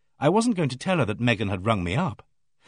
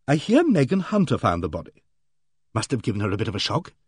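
hearty bossy lady. Acted. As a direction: play her booming and self-assured. Aimee Griffith's hearty voice.

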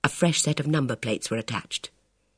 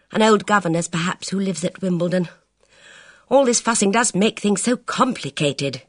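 put-on young woman voice; 5 semitones higher than usual. Elvira voiced.

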